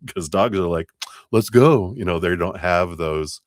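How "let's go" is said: eager dog voice. Retold or imitated. Voicing eager dogs.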